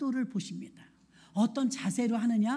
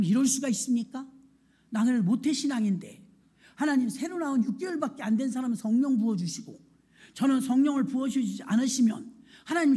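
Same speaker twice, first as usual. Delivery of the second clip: mock threatening complaint. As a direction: demand it like you've been wronged. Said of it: "막 이러면서 공갈, 협박". (하나님께 따지듯 억울하게 항의)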